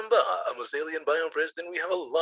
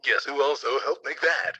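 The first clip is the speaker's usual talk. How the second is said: hype man ad. Acted. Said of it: "be my hype man".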